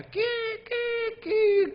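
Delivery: high, slow squealing seagull call; seagull cries. Retold or imitated. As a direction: imitate the gulls crying kiki. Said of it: "갈매기를 보내주시더라고요".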